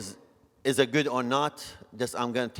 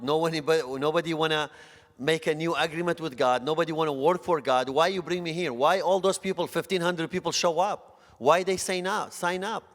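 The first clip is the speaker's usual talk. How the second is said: building anguished plea; 5 semitones higher than usual. Retold or imitated. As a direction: pile up the questions, pleading harder. Retold plea to God, rising.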